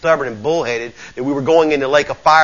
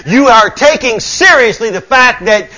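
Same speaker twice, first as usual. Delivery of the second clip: raised, higher-pitched sermon affirmation; emphatic preaching; 7 semitones higher, 5 dB louder than usual. Real, not acted. Preacher affirming the congregation's observance, preaching emphatically. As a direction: build conviction phrase by phrase.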